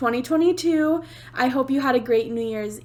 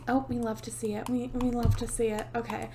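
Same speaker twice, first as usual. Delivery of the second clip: quiet mutter; 9 dB quieter than usual. Real, not acted. Muttering to self over game.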